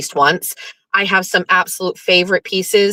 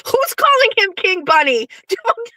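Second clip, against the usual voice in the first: much higher frantic pleading; mock alarm; 13 semitones higher than usual. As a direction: panic as if he gains powers. Mock panic about King Bunny.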